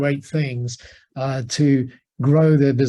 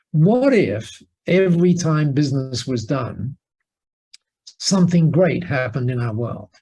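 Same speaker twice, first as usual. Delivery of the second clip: weighty what-if question. Retold or imitated. Poses the big question slowly.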